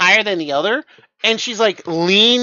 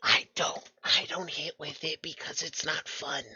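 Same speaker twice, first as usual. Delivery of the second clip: soft playful menace; 3 semitones lower, 13 dB quieter than usual. Acted. NPC soft menacing aside.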